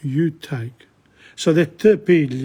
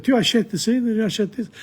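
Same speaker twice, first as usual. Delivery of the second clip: tu achètes in a French voice, a little higher; French accent; 5 semitones higher than usual. Shown as a demonstration. Teacher shows where the Neapolitan word came from, French accent. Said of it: "they picked up acheter".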